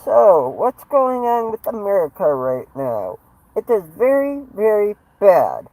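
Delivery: amateur impersonation of an aggrieved president; Donald Trump. Acted. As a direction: deliver it as a boastful president's stump speech. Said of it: "I can't do a good Trump impression".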